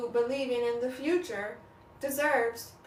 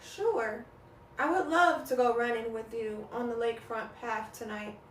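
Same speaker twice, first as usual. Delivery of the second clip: subdued, apathetic agreement; 4 dB quieter than usual. Acted. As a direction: agree without any enthusiasm, voice held down. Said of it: "in an apathetic tone".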